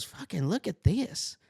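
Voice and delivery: high, slow, boyish imitation voice; Turkey Feather. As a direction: show off your find in a put-on high voice. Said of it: "looking and sounding like Bobby Hill".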